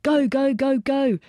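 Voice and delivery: high, loud urging chant; urgent urging. A narrator's reading. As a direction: hurry them along. Soldiers hauling the body.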